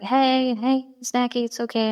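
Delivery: lightly acted comforting tone; retold soothing sister. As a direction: coax an upset little sibling, imitated. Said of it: "she emotionally soothes me".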